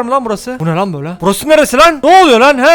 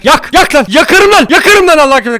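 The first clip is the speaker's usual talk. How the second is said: loud, higher angry threat; 4 semitones higher, 4 dB louder than usual. Real, not acted. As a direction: yell it at the mutant. Angrily threatening a mutant. (sinirli, bağırarak tehdit)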